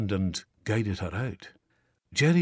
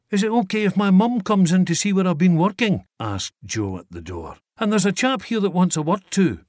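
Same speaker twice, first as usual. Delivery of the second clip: calling out; 9 semitones higher, 7 dB louder than usual. Acted. Joe calls from door.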